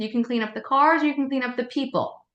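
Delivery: light, friendly choice offer; teacher offering a toddler two clean-up options. Shown as a demonstration. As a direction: give both options cheerfully. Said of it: "two positive choices".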